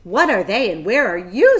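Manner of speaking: loud frantic calling out; scream. A narrator's reading. Piglet yelling for the unseen voice. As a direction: shout it into the dark barn. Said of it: "screamed Wilbur".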